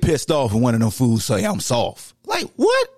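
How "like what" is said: indignant what. Real, not acted. Indignant at being called soft.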